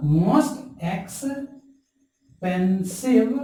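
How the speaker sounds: most held long and slow before expensive; drawn-out most. Shown as a demonstration. Teacher to class, dwelling on most in most expensive. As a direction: lean on most, stretch it out.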